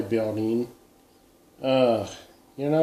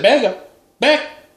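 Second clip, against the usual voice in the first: slow, higher mock warning to back up; hammed-up threat; 9 semitones higher, 4 dB louder, slower than usual. To pushy neighbours with cocoa, slow mock warning. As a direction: pace it out like holding someone off.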